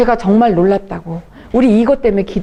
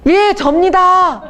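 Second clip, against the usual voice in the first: sheepish answer; 8 semitones higher, much slower than usual. Retold or imitated. Meek reply to scolding elder.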